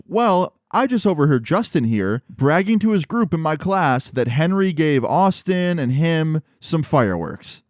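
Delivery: lightly voiced teacher reporting a pupil; tattling teacher. Teacher retold reporting to principal.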